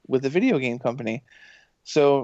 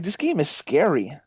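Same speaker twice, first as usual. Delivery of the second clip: whispered; 3 semitones higher than usual. Retold or imitated. Reacting to the beta, whispered.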